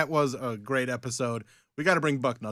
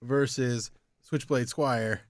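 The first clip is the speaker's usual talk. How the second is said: ring announcer; 2 semitones higher, slower than usual. Acted. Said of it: "let's cut a promo".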